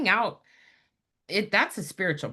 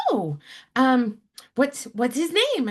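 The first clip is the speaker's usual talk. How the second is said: grandmother voice; 8 semitones higher, 4 dB louder, slower than usual. Retold or imitated. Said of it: "she said".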